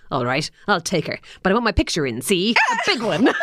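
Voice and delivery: lightly voiced old-timey gangster, rising with a laugh; a hint of a 1930s tough guy making demands. Podcaster reading Bruce's line as a gangster, a light gangster voice. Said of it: "one of his amazing gangster lines".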